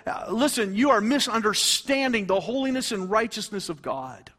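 high, urgent exhortation; forceful preaching. Real, not acted. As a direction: press the warning home from the pulpit.

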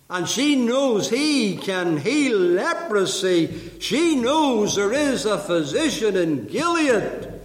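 slow, emphatic pulpit declaration; full-force preaching. Real, not acted. Preacher declaring the girl's faith to the congregation, full-force preaching. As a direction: declare each point with mounting conviction.

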